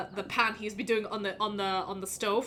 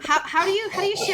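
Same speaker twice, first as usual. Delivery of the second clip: words breaking into a laugh, higher; 10 semitones higher, 7 dB louder, faster than usual. Real, not acted. GM laughing at the orc joke while asking. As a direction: laugh through the question.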